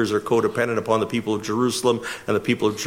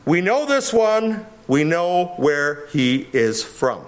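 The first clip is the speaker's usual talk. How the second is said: extreme confidence; 4 semitones higher, slower than usual. Retold or imitated. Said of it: "extreme confidence in the assertion".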